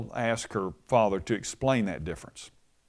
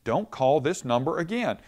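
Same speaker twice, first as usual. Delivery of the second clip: higher, raised retold yell; mock angry yell; 6 semitones higher than usual. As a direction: bark back at a pest caller. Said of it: "The man yelled back".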